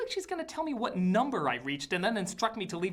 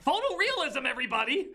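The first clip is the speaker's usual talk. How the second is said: sarcastic announcing; 7 semitones higher than usual. Acted.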